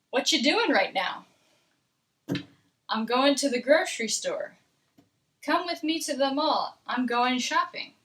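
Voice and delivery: casual read-aloud at everyday pace; relaxed American dialogue reading, words linked; normal American speed. Shown as a demonstration. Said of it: "normal American speed".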